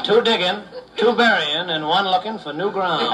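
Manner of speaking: barely holding back laughter; laughing punchline. Real, not acted.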